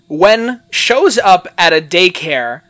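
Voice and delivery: loud, slow read-out of a botched summary; literal as-written reading. Shown as a demonstration. Host mocking a badly written Wikipedia summary, deliberate literal reading. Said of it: "the way I am reading it is the way it is written".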